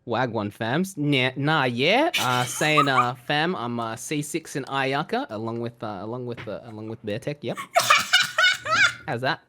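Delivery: put-on broad Australian accent. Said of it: "I can do it in a broad Australian accent".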